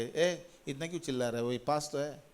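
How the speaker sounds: soft, lightly voiced mother's telling-off; a hint of reproachful mother; imitated scolding mother. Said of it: "mummy पीछे एक बार कही".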